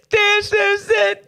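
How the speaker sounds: high, slow shouted declaration; preaching shout. Real, not acted. Preacher shouting to the congregation, high and slow. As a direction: throw it out to the room.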